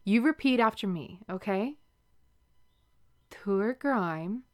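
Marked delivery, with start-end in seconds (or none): 3.3-4.4 "Tour grime" drawn out slowly, rising on "grime"; said slower. Shown as a demonstration. Repeating the Irish words slowly for her lover to copy. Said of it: "I'll say it again, but slower".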